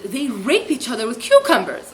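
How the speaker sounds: imitating a loud, tactless blurt; retold loud blurt. Imitating the smoker loudly finishing her rumour, loud blurt. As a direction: blurt it out after the hush. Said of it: "and then loudly said".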